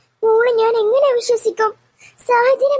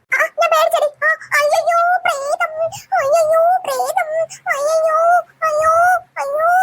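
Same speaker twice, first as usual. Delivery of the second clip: higher, hammed-up cries of fear; mock scared cries; 5 semitones higher than usual. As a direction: overplay the fright to tease the ghost. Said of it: "ഇത്രയും പേടിച്ചാ മതിയോ?". (പ്രേതത്തെ കണ്ട് പേടിച്ചതുപോലെ കളിയാക്കി നിലവിളിക്കുന്നു)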